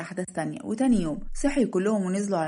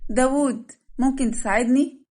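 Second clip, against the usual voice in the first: raised, higher-pitched appeal; calling for help; 5 semitones higher, 5 dB louder, slower than usual. Acted. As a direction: call out to him and ask. Bride calls groom for help. (نداء وطلب مساعدة بصوت مرتفع)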